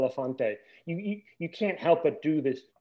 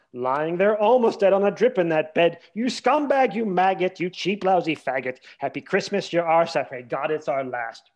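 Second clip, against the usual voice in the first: louder lyric recital; 5 dB louder than usual. Retold or imitated. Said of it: "the original one is".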